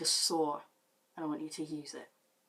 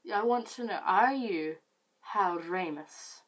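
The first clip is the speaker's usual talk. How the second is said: put-on slow, loud, slurring drunk questioning; hammed-up drunk interrogation, louder and slow; 2 semitones higher, 5 dB louder, slower than usual. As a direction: demand it like a drunk at a party. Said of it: "in my drunk state".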